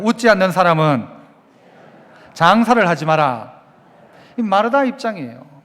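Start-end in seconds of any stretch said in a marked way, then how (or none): 0.0-3.6 call and response. Shown as a demonstration. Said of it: "한번 따라해볼까요?".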